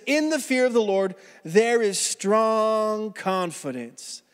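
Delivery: slow, drawn-out verse reading; slow scripture reading. Acted. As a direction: read the verse slowly and weightily. Pastor reads key verse slowly.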